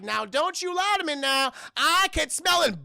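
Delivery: slimy villain. Retold or imitated. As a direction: taunt like an oily villain. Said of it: "Juicy sounds so slimy".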